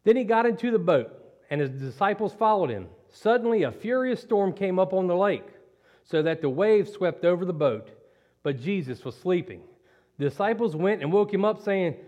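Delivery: measured Bible reading to the church; scripture reading. Acted. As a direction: read the passage steadily, like telling a story. Reads Matthew 8 aloud.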